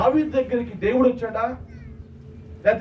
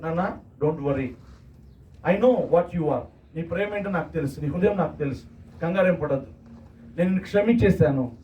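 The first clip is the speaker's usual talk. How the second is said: tender Jesus; 6 semitones lower than usual. Acted. Jesus comforting Peter after his denial, lower and tender. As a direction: soothe him like a loving father forgiving. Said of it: "ఏమంటారు తెలుసా పేతురుతో?".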